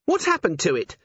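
high voice, easing from alarm; panic receding. A narrator's reading. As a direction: ask with a little panic left. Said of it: "her panic receding a little".

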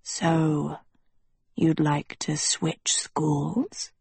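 lightly voiced schoolmaster, slow question; understated, drawn-out inquiry. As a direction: ask it slowly and coolly.

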